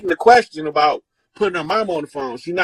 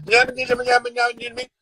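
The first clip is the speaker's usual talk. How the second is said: put-on a light babbling toddler voice; mildly voiced baby gibberish; baby talk; 5 semitones higher, faster than usual. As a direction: babble like a little baby on the phone. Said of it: "They talking baby talk".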